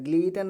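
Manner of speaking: ग्लीटन as "glee-ten", t sounded; wrong pronunciation. Shown as a demonstration. Teacher listing readings to avoid, t sounded. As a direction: say ग्लीटन with long ee and a clear t. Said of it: "नहीं पढ़ा जाएगा".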